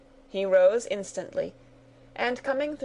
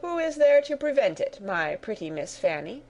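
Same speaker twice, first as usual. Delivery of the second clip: dismissive colonel; 3 semitones higher than usual. Acted. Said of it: "echoed the colonel".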